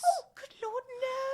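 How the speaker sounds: high, loud burst of protest; good heavens, not at all; shocked reassurance to a worried secretary; startled denial. Acted.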